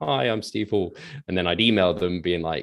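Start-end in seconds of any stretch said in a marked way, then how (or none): 0.0-0.9 put-on bashful, timid, shy kid voice. Retelling meeting experts at seminars in person: imitating own shy younger self. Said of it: "this shy kid being like".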